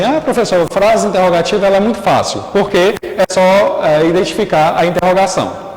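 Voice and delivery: teacher mimicking a confident pupil, lightly; imitating a student. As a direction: mimic a student who thinks it's easy. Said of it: "muitos dizem assim".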